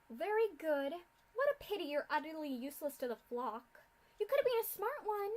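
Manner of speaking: haughty mad scientist mocking captives; sneering villain. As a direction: look down on these fools. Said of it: "Doctor Atmosphere mocks Orion".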